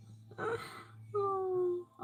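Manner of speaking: long, high, soft sigh. Real, not acted. Streamer hears about hot kitchen work, long sigh. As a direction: let out a drawn-out sigh.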